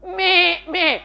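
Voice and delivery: short plaintive sheep bleats; wobbly sheep "meh"; bleating sheep. Acted. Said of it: "Sheep bleat".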